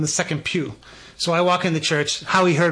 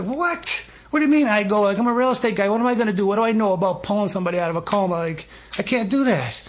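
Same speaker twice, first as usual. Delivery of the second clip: a much higher "What?", then protesting he can't; stunned disbelief; 5 semitones higher, faster than usual. Retold or imitated. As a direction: caught off guard and backing away. Stunned at being told to go.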